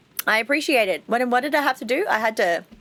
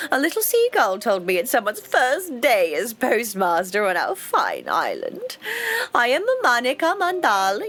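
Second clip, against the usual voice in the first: a hint of a self-important mayor, sweetly welcoming; lightly voiced proud mayor. Mayor greeting the new postmaster, lightly pompous. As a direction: play the smug small-town mayor, lightly.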